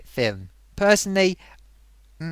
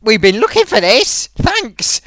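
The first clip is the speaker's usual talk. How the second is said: mock Han Solo; 4 semitones higher, 5 dB louder, slower than usual. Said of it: "with Chewbacca and says".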